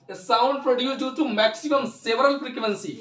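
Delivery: very slow, word by word for the notebook; slow dictation. Shown as a demonstration. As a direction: read the definition out slowly so students can write it. Dictating definition to students. (धीमी गति से लिखवाना)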